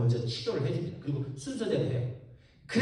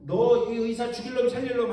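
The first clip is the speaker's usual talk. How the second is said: mock angry patient; 5 semitones higher, 3 dB louder than usual. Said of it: "노발대발하는".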